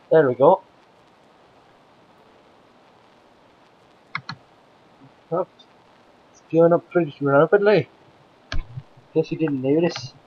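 lightly played Scotsman; put-on Scottish accent. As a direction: talk like a Scotsman, as a game-host act. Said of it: "My Scottish accent".

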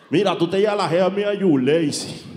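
mock Mexican gangster, leaning on llevas; a light Mexican gangster threat; Mexican accent. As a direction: Mexican gangster warning a rival. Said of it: "hablando de ese acento".

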